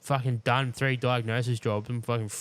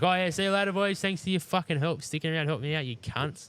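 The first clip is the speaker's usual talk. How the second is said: sarcastic mock farewell; 6 semitones higher than usual. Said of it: "I was like".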